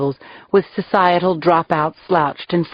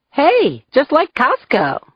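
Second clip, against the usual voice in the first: sarcastic quip; 9 semitones higher, slower than usual. Acted. Narrator mocking bartender.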